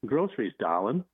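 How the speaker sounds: half-hearted attempt at a Brooklynish New Orleans accent. Shown as a demonstration. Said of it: "you'll say something like".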